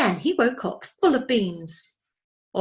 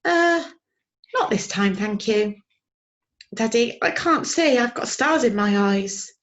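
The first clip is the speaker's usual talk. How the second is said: put-on high, excited young owl; a small owlet, eager and raised; little owlet voice; 3 semitones higher, 5 dB louder than usual. A narrator's reading. Young owl Plop pleading with his father, high and eager.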